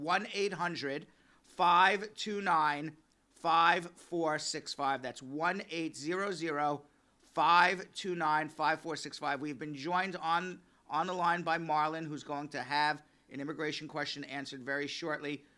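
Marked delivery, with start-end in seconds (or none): 0.0-5.0 very slow, carefully broken up, halting, raised voice. Giving listeners the number to call the radio: saying it very slowly. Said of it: "I'm gonna say that number very slowly".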